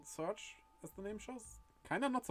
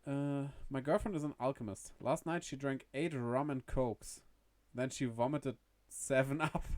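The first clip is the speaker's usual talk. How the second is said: jester voice. Acted. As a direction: tell the gag as a cheeky jester. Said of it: "Your voice for the jester".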